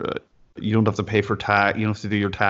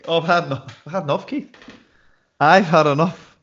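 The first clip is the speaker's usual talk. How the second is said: high mock protest; 7 semitones higher than usual. Mock protest over the wine.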